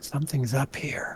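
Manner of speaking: hushed, soft, whispered. A player's character speaks at the trap door, in a soft voice. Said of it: "I'm in a soft voice".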